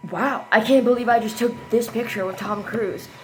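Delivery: loud, amazed recounting; retold amazement. Fan recalling her photo with the star, loudly amazed.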